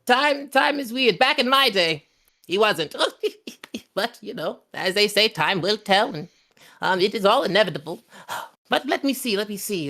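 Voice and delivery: high, cackling crone musing; musing old hag. Acted. Hag musing to the party about time, high and sly. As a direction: ponder aloud like a sly old witch.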